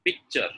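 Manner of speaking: PICTURE as it is written in Hindi; wrong pronunciation. Shown as a demonstration. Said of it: "way it is written in Hindi".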